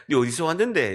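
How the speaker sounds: imitated Pohang kid's Gyeongbuk dialect. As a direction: ask it in North Gyeongsang dialect. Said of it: "경북 사투리 쓰는 포항애가 저한테". (경북 사투리 흉내)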